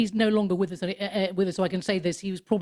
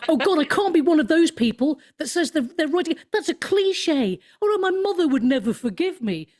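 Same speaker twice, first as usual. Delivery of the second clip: high, louder self-mocking fluster; hammed-up panicked inner monologue; 5 semitones higher, 3 dB louder than usual. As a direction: re-enact dawning dread at your own announcement. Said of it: "the panic".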